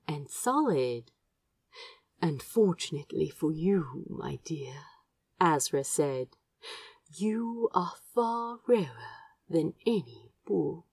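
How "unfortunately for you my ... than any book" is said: a touch of mischief, soft and fond; smiling, teasing. Acted. Azra to Crow in the garden, smiling and teasing. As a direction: tease him gently with a smile in your voice. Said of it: "His voice had a smile in it".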